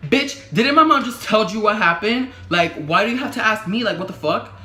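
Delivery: acted-out outrage, punched hard on the opening; indignant outburst. Her unspoken retort to the officer asking again, indignant.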